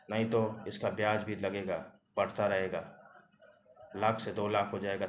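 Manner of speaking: a mild menacing Thakur pushing his offer; menacing threat. Acted. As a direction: lean on her until she gives in. Thakur threatens her with interest.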